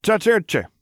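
bright high greeting with a smile; friendly greeting. A narrator's reading. Luke greeting troopers in the mess hall, friendly. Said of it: "he greeted with a smile".

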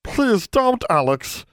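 high-pitched, urgent elf plea; pleading. A narrator's reading. Elf begging Alex not to go, pleading. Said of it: "Bran pleaded".

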